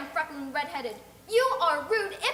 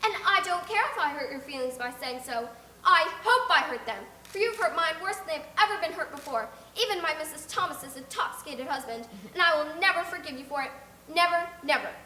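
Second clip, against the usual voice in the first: loud, high, indignant tirade; furious child; 5 semitones higher, 7 dB louder than usual. Acted. Insulted girl raging at the neighbour, loud and indignant. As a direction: shout down the rude woman.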